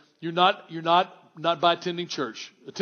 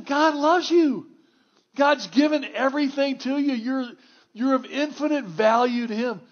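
impassioned preaching; 8 semitones higher than usual. Acted. Pastor urging his church, impassioned and pleading.

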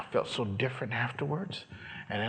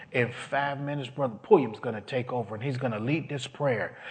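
retold announcement; 3 semitones higher, 5 dB louder than usual. Imitates woman announcing to the group.

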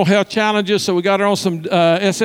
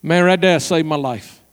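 sincere testimony; 3 semitones lower than usual. Retold or imitated. Vanessa's solemn testimony.

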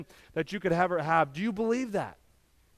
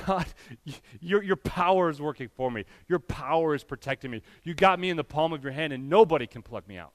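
quiet prayer; 3 semitones lower than usual. Shown as a demonstration. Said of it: "stop and praise God".

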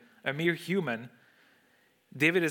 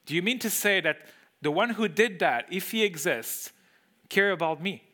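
incredulous question; 3 semitones higher than usual. Acted. Incredulous rhetorical question, repeated.

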